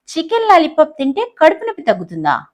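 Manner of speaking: disbelieving professor, voice jumps up; shocked. Acted. Professor hears chicken lollipop cure, shocked. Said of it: "professor షాక్గా".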